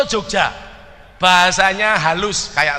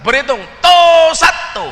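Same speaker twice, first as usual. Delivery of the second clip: Madura counting; 10 semitones higher, 8 dB louder than usual. Retold or imitated. Preacher mocks a Madurese recruit counting, loud drawn count. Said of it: "Madura nggak bisa".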